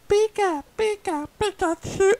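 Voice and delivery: very high, squeaky creature call; Pikachu. Acted. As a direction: chirp it in short high bursts. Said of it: "I actually did the voice clip".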